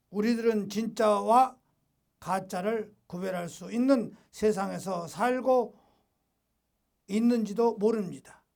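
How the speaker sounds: measured preacher's reading in short phrases; deliberate, formal pulpit delivery; emphatic read-aloud. Acted. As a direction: read it out firmly, pausing between phrases. Resumes reading the text aloud.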